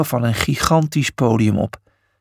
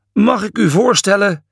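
higher-pitched formal presentation; grand introduction; 7 semitones higher, 3 dB louder than usual. A narrator's reading. Someone presenting the statue to Julius, grand introduction. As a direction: present it with ceremony.

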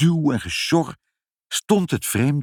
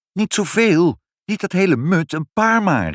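high, louder protest; calling out; 10 semitones higher, 4 dB louder than usual. A narrator's reading. Mother stops father overfilling the machine, calling out in protest. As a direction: cry out in high-pitched alarm to stop him. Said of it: "riep moeder".

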